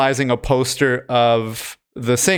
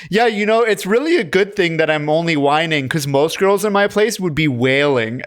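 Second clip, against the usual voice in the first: mock whiny girl; 3 semitones higher than usual. Girl playing hurt, retold.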